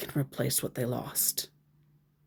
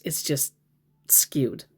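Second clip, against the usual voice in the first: whisper; 5 semitones lower, 5 dB quieter, slower than usual. Real, not acted. Whispering an aside to viewers about scammer logic. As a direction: drop to a hushed whisper.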